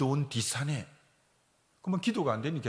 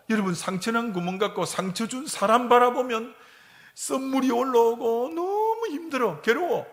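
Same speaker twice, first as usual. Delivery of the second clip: higher, louder anguished cry; impassioned preaching; 8 semitones higher, 6 dB louder than usual. Acted. Preacher cries out the anguish of resentment, higher and louder. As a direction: let the pain ring out to the church.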